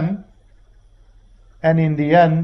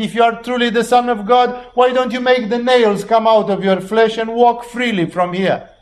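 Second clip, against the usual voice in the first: higher and quicker, sneering challenge; arrogant taunt; 5 semitones higher than usual. Retold or imitated. Preacher voicing the arrogant thief mocking Jesus, higher fast sneer. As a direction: throw the dare at him with contempt. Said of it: "The other thief was arrogant".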